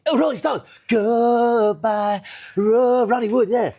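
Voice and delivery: high, loud eager broken English; imitating excited lodger. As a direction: burst out with fan joy. Japanese lodger voiced in story.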